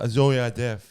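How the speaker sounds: lightly mimicked deaf speech; imitated deaf voice. Comic retelling an audience member, imitated deaf voice. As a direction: put on a deaf man's voice. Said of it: "fully doing the voice".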